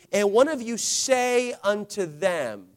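slow reading, lingering on "say"; stress on SAY. Shown as a demonstration. Preacher pointing the church to one word in the verse, stress on "say". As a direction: draw out the word "say". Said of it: "see the word say".

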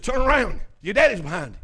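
lightly acted holler; mild retold holler. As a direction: call to someone across the room, not full shout. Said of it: "I hollered at that brother".

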